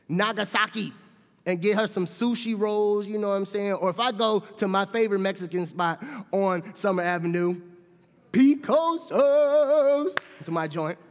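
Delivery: high, loud and fervent; loud preaching. Acted. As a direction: build it to a shout. Fervent climax of story.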